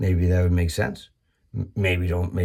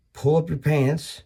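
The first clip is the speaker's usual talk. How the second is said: high, slow, hammed-up nagging at kids; mock scolding; 6 semitones higher, slower than usual. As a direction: lecture them like a fed-up parent, drawn out.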